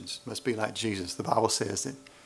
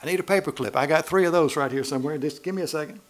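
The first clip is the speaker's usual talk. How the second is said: higher, eager voice digging through a purse; mock woman searching; 4 semitones higher, 3 dB louder than usual. Preacher mimicking a woman rummaging through her purse, eager. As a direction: play the lady sure she has it somewhere.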